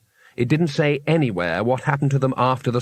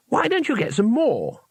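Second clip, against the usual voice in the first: higher, bright and eager; 10 semitones higher than usual. A narrator's reading. Two Flower to Cohen, brightly eager question. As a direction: chirp it cheerfully. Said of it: "said Two Flower brightly".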